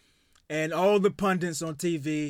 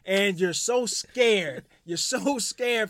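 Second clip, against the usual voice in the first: slow mocking; much slower than usual. Real, not acted. Mocking rant at Ben Simmons.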